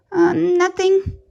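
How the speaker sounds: high, jumpy yelp of a nervous rabbit; a scared little yelp, trying to sound fine; startled yelp. Acted. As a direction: blurt it out, caught off guard. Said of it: "he yelped".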